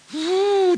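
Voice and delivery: long, high-pitched "phew". Real, not acted. Preacher reacting to the Bible's verdict on worry, exhaling a high "phew". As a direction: blow out a drawn-out, high puff.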